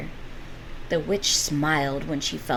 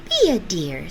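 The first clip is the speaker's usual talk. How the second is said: sly grin; 5 dB louder than usual. Acted. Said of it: "said the witch with a slow grin".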